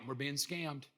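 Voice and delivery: low, muttered suspicion; skeptical. Acted. Skeptic in the crowd doubting his leader, skeptical. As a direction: grumble it under your breath like a doubter. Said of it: "Skeptic, skeptical Mark".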